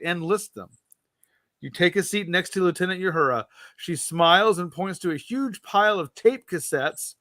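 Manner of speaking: measured read-aloud narration, voicing the captain's lines lightly; story narration. Host reading a Star Trek gamebook to co-host, storyteller narration. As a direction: read the adventure to the listener like an audiobook.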